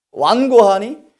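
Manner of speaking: loud, high accusing question; acted reproach. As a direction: throw it out as an exasperated accusation. Brothers accusing Jesus of stubbornness.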